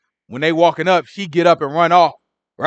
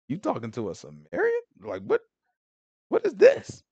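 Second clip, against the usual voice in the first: shocked disbelief; 2 semitones higher, 8 dB quieter than usual. Retold or imitated. Disciples shocked at Samaritan woman.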